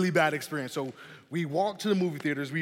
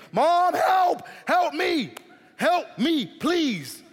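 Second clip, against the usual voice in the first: much higher, louder frantic yell for mom; crying for help; 12 semitones higher, 6 dB louder, much slower than usual. Retold or imitated. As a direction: call out like a terrified kid at night. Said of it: "So I, I call my mom".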